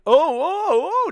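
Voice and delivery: high panicked oh oh oh; panicked high yelps. Retold or imitated. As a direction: squeal in a fluster. Zito panicking impression.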